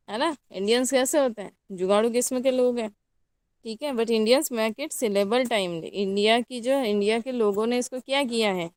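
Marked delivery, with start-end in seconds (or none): 3.9-5.8 drawn-out words laid down one at a time; slow dictation. Shown as a demonstration. Teacher dictating the key point to the class, slowly. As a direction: give it slowly so they can write it. Teacher repeats line for notes.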